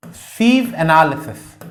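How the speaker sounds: drawn out with long pauses; slow dictation. Real, not acted. Teacher writing the first step's name, slow dictation. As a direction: dictate the term slowly while writing. Names the step while writing it.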